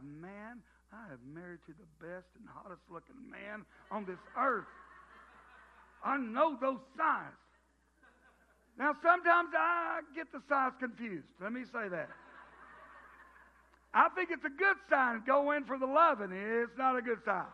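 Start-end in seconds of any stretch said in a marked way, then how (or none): 0.0-4.7 admiring wife. Retold or imitated. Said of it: "that sigh of". 15.3-16.3 eager husband. Retold or imitated. Husband misreading the sigh.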